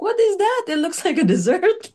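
lightly voiced grandmother squinting at the dish; imitating grandmother. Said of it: "That's what she said".

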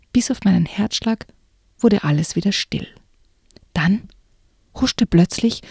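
hushed, suspenseful reading aloud; story narration. A narrator's reading. Narrator reading a spooky book excerpt to the listener, suspenseful. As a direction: read it like a creepy tale, drawing them in.

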